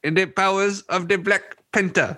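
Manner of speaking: lightly acted villain line; a hint of a pompous movie villain; quoting a terrible line. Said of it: "that line was terrible".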